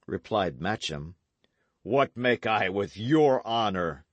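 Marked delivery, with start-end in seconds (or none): 1.8-4.0 loud scoffing retort; scornful cry. Acted. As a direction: knight mocking the pledge. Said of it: "cried the knight".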